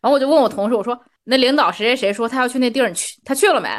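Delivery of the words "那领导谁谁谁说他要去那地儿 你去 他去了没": slightly curt, querying tone; mildly questioning. Retold or imitated. Asking a coworker whether the boss went, mildly questioning. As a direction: ask it with a touch of accusation. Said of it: "这个语气稍微有一些不佳，带有些许质问".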